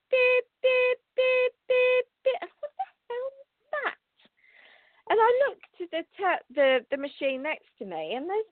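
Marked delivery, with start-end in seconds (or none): 0.1-2.4 high mock electronic beeps, beep beep; imitated machine beeping. Telling viewers about the bank machine, high imitated beeping. 2.4-4.0 surprised. Retold or imitated. Baffled at sudden beeping.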